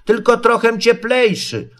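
high little creature voice; high-pitched small animal voice; thoughtful piglet. A narrator's reading. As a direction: add an afterthought in a high pipe. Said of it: "dodał po głębszym namyśle".

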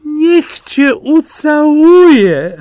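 high, loud, slow cry of joy; wife overjoyed at rotten apples, exclaiming high and loud. Acted. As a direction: shout it out, overjoyed. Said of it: "wykrzyknęła kobieta".

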